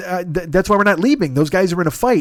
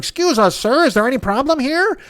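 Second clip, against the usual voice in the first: higher, mocking do-gooder voice; mock Cub Scout; 7 semitones higher than usual. Cocky kid interrupts a street fight, mock officious. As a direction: imitate a self-important Cub Scout stepping in. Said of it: "two fucking Cub Scout idiots".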